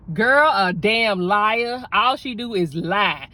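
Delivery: loud, slow scornful man's voice; imitating the man. The man telling her the girl is a liar, loud scorn. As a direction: bark out the accusation slowly and loud.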